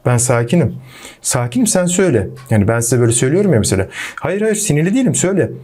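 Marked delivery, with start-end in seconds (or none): 0.1-2.3 lightly acted forced calm with an edge; mock passive-aggressive calm. Shown as a demonstration. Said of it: "pasif agresif bir şekilde sakin olursunuz". 4.2-5.5 lightly acted insisting you're not angry; a touch of strained denial; mock forced calm. Shown as a demonstration. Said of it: "aslında sakin gibi olmaya çalışırsın".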